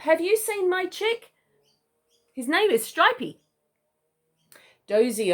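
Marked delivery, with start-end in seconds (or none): 0.0-3.4 anxious emu dad. A narrator's reading. Father asks koala about chick.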